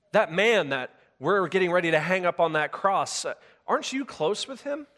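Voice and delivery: mock accuser, pointed and prying; accusing bystander. Accusers questioning Peter.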